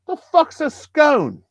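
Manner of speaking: high, drawn-out mock outrage; retold bafflement. Acted bafflement at brother's scone order.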